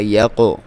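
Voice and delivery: "یقو" with a bouncing qaf; qalqalah echo. Shown as a demonstration. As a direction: let the q rebound in "یقو". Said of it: "قلقلہ کرنا ہے".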